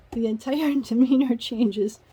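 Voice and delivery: real laugh breaking into "The entire demeanor changes". Real, not acted. Reader laughs retelling the fiancé's turn, amused. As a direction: chuckle through the line in disbelief.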